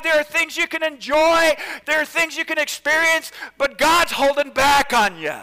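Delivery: high, loud seductive pitch; whispering tempter. Acted. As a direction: lure her in with big promises. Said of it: "you can almost hear him say".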